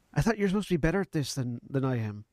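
put-on Scottish accent drifting towards Spanish; attempted Scottish accent. Player taunts opponent in character, attempted Scottish accent. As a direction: try a Scottish accent, landing near Spanish. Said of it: "You just took my accent".

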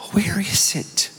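soft Mississippi mother's voice; Mississippi accent. Retold or imitated. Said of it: "her Mississippi accent".

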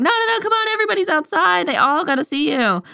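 very high, eager coaxing; excited insistence. Retold or imitated. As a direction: brush off the protest in a high, bubbly voice. Captain insists he come outside.

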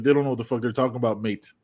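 quick, jokey imitation of a British football fan, mate tacked on; mock British accent. Host mocking British fans in a British accent. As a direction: rattle it off fast in a put-on British accent. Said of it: "That was my British accent".

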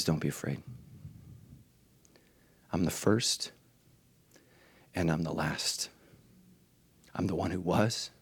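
quietly tender; gentle reassurance. Acted. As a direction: comfort a frightened man. Jesus voiced gently to John.

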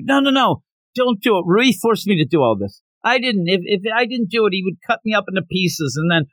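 high, rushed begging, a touch hammed-up; mock panicked pleading. Demon begging Shinobu not to kill her, mock panicked.

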